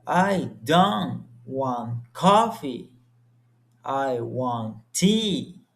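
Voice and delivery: slow and deliberate, "tea" landing on a firm falling tune; falling intonation for choice. Shown as a demonstration. Student demonstrating a clear choice to classmates, slow falling tune. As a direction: make the choice clear, dropping the pitch on "tea". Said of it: "I use falling intonation to show a clear choice".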